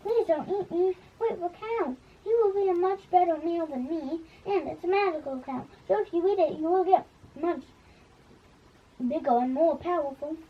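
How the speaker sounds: high, pleading knight voice; begging for mercy. Acted. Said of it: "the knight begged for mercy".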